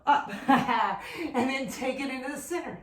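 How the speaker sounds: laughing while out of breath; breathless laugh. Real, not acted. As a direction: laugh through the cue, still winded. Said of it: "Sorry, can't talk, I'm out of breath".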